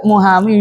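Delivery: "Muhamiu" said lightly with a rising end; light easy pronunciation. Shown as a demonstration. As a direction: toss off "Muhamiu" as if it were effortless. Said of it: "ringan-ringan saja". ("Muhamiu" diucapkan ringan)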